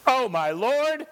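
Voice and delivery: slow, drawn-out self-pitying moan; whiny complaint. Retold or imitated. Preacher imitating fearful Gideon, slow whiny lament. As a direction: moan it like you've given up. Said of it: "You ever talk like that?".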